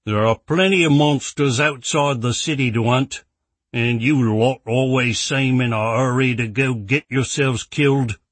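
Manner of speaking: a voiced grumpy merchant; gruff shopkeeper. Rex the shopkeeper speaking.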